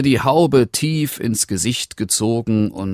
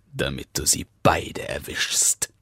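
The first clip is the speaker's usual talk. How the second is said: whisper; 4 semitones lower, 5 dB quieter than usual. Acted. Wolf plant heimlich seinen Trick.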